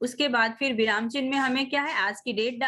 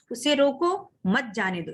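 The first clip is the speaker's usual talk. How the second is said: उसे रोको, break, मत जाने दो; slow reading split after रोको; pause after रोको. Shown as a demonstration. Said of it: "फिर हमें थोड़ा सा रुकना है".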